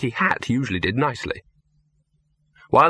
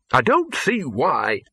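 gurgled protest; 3 semitones higher, slower than usual. Acted. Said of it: "the dean gurgled".

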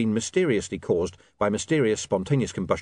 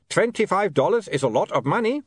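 put-on high-pitched, mild shout with vampire accent; 10 semitones higher than usual. A narrator's reading. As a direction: call it over a din. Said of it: "he shouted".

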